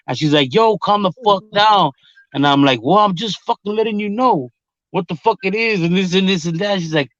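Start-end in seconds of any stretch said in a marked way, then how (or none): 0.5-1.9 higher-pitched mimicry of an exasperated partner; retold exasperation. Acted quarrel with partner. 2.8-6.8 higher-pitched replay of arguing back; retold defensive retort. Acted quarrel with partner.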